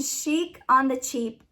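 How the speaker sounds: "Chic" as sheek, "Cheap" with a clear ch; said right, carefully. Real, not acted. Vlogger naming the channel successfully, carefully. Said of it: "There you go. I said it".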